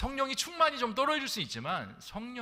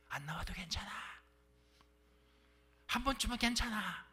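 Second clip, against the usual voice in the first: coaxing, higher tempter's voice; tempting inner voice; 5 semitones higher than usual. Pretend. Inner voice telling believers skipping church is fine, coaxing. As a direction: sweet-talk them out of going to church.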